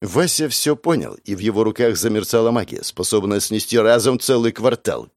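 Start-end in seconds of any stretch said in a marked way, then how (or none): none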